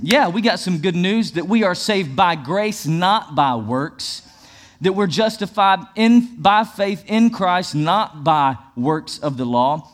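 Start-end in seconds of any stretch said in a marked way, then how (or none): 2.8-4.2 slow phrase, "not" set apart; slow down and lean on "not"; stress on NOT. Shown as a demonstration. Pastor reading scriptures on grace, slow emphatic "not". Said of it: "emphasize the word". 6.4-9.9 slow, deliberate weight on "not"; stress on NOT. Shown as a demonstration. Pastor reading scriptures on faith, slow emphatic "not". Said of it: "emphasize the word".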